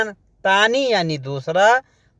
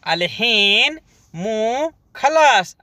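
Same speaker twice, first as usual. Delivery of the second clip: "अलहीन मो खलास" said slowly, leaning on "खलास"; slow model take; 2 semitones higher, slower than usual. Shown as a demonstration. Teacher slowly models the phrase for Hindi learners. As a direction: drag out "अलहीन मो खलास" for repetition.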